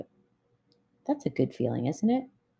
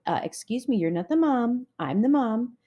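higher-pitched mock indignation; indignant mom; 5 semitones higher, 3 dB louder than usual. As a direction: put a bossy kid in their place, playfully. Acts mom correcting bossy child.

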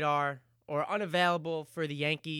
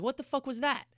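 pitched way up, incredulous mock yell; mock exasperated manager; 9 semitones higher, faster than usual. Manager Francona reacting to his pitcher's meltdown, mock disbelief. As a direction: imitate a stunned manager blurting it out. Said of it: "He's like".

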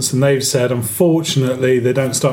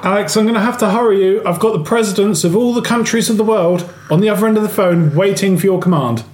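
brisk, slightly raised voice of an aide; urgent aide; 5 semitones higher than usual. Acted. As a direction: hurry the boss along like an assistant.

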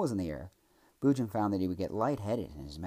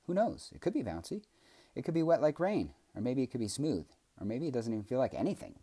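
pondering aloud; 7 semitones higher, 3 dB louder than usual. A narrator's reading. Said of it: "pondered Boojum aloud".

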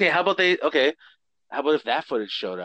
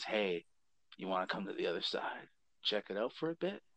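spooky ghost voice; 6 semitones lower, 13 dB quieter than usual. Acted. Ghost inviting to other side.

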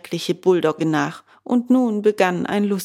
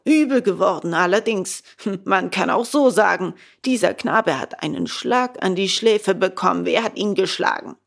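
a hint of a stern policeman, a bit louder; dry official suspicion; stern gendarme; 3 dB louder than usual. The gendarme sternly questions Bengele about the blow.

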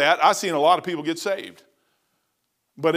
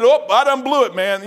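dismayed outburst; 6 semitones higher, 6 dB louder than usual. Retold or imitated. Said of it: "I already said".

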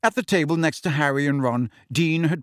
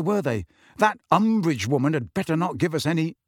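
grumbling; 4 semitones higher than usual. Acted. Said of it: "Ron grumbling loudly".

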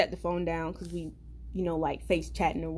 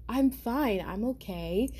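creepily calm imitation; 2 semitones higher, 3 dB quieter than usual. Friend with a knife answers a worried caller, very calm. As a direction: play him eerily calm, unbothered. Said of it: "it's just very calm".

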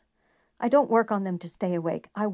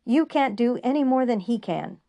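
very high, loud angry yell fading to bitter; furious shout; 4 semitones higher, 8 dB louder than usual. A narrator's reading. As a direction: lash out at her, then grind on bitterly. Julian turns on her angrily.

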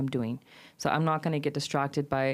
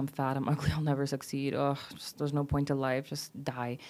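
quietly putting oneself down, trailing softer at the end; retold negative self-talk; 5 dB quieter than usual. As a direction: mutter retold self-criticism, understated. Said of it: "I used to talk down at myself".

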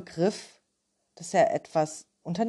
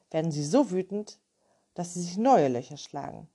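lightly voiced clever cat; wise cat voice; 2 semitones higher than usual. The cat gives advice.

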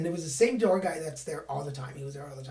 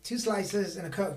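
muttered order; 7 dB quieter than usual. Retold or imitated. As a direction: rattle off the order like a regular. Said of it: "everybody's just like".

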